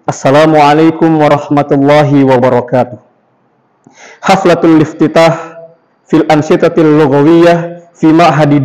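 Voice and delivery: measured, level tone from "Bismillahirrahmanirrahim" onward, no waves; even, unhurried Arabic announcement, "Assalamualaikum" without swing; flat Arabic MC delivery. Shown as a demonstration. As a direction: read "Haflatul iftitah" and the rest slowly on an even note. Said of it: "tidak ada gelombang-gelombangnya seperti bahasa Indonesia".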